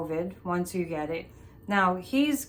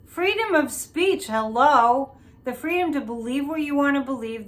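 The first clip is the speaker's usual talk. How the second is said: indignant; 4 semitones higher, 5 dB louder than usual. Real, not acted. Indignant about book burning.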